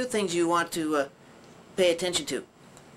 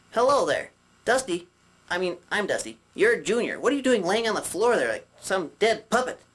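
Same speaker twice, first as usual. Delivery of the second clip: puppet voice; 3 semitones higher than usual. Shown as a demonstration. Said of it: "Like this".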